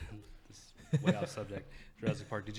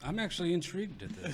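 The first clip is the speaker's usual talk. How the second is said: giggling through the words; can't stop laughing; 8 semitones higher, 4 dB quieter than usual. Real, not acted. Group cracking up at joke.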